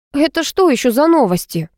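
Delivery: frowning. A narrator's reading. Girl frowns at a boy withholding notebook, indignant. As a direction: bristle at the demand. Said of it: "нахмурилась я".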